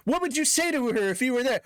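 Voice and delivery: very high imitating voice; high mock voice. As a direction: ask it in a shrill mock voice. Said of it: "It was like".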